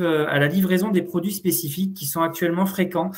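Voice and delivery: muffled through a face mask. Real, not acted. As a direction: speak with a mask over the nose. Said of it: "j'ai le masque sur le nez".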